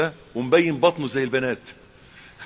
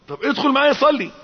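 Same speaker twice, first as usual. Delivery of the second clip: coaxing friend; 13 semitones higher, 7 dB louder than usual. Retold or imitated. Pleading friend in the car.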